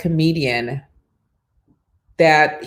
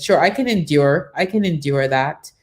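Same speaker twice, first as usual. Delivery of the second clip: passive aggressive. Retold or imitated. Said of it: "I was kind of passive aggressive too".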